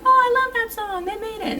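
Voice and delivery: very high, mock-adoring gush; gushing fan. Listeners credit the cover artist, mock gushing. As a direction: imitate a swooning listener. Voices fans of a cover hit.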